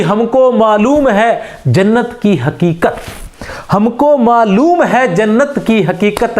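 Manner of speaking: slow, savoured couplet, each line said twice; poem recitation. Acted. Teacher reciting Ghalib to his class, slow and savoured. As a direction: linger on the verse like at a mushaira.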